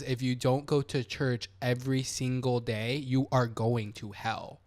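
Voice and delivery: dead straight warning. Retold or imitated. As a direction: imitate someone stating damnation slowly and straight. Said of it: "They said it straight, like, straight to me".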